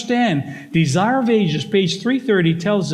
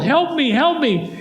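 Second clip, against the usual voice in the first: yelling for help; 8 semitones higher than usual. Acted. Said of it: "But he just yelled".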